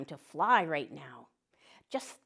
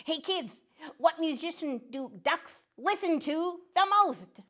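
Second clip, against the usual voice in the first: high, cheerful cartoon duck voice; a chirpy little duck saying hello to kids; friendly duck puppet; 8 semitones higher than usual. Duck puppet joke and quacks.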